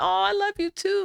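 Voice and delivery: put-on high, cooing mother to child; retold affectionate answer, pitched high; tender reply. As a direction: coo it back to your little girl. Mother answering her lovey child.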